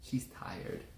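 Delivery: soft whisper. Real, not acted. Child sleepy.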